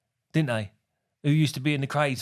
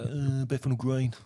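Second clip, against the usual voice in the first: slow, put-on Londoner voice; mock a mate faking where he's from, slowly; drawn-out fake Londoner reply; putting on London; 3 semitones lower, slower than usual. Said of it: "Like that".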